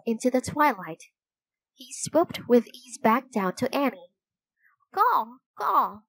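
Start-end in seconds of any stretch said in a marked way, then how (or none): 4.9-6.0 calling. A narrator's reading. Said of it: "he called".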